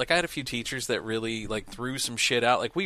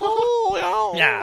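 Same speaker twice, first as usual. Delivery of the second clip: high squeaky oh; 5 dB louder than usual. Retold or imitated. Mimicking coworker's high voice.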